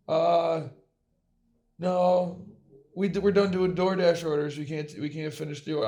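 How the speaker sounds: mimicking the worker. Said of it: "they refuse his order".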